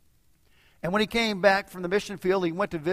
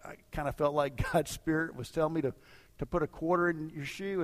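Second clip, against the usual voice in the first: a slightly sheepish admission, softened; acted sheepish, hesitant confession; mild sheepishness; 4 dB quieter than usual. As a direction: admit it with an embarrassed little chuckle. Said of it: "He is feeling a little sheepish".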